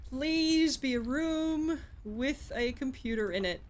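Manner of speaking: drawn-out, slow plea; wishful, slow begging; pleading. Real, not acted. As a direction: beg slowly, stretching the words. Begging the game for a room.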